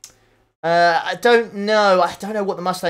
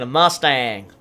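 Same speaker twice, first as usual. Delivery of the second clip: drawled American "Mustang"; mock American accent; 4 semitones lower, much slower than usual. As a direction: put on an American twang for Mustang. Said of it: "my American accent".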